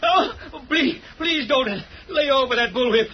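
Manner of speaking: frightened pleading. Acted. Henchman fears the whip.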